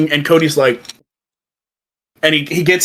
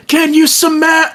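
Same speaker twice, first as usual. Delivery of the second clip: Rock question; 12 semitones higher, 3 dB louder than usual. Retold or imitated. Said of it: "he goes, he goes".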